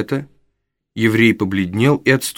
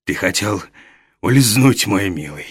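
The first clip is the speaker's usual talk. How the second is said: low, much softer, silky menace; old fence sneers at the runaway boy; insinuating; 4 semitones lower, 3 dB quieter, slower than usual. Acted. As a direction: purr the threat with false kindness. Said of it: "вкратчиво проговорил старый еврей".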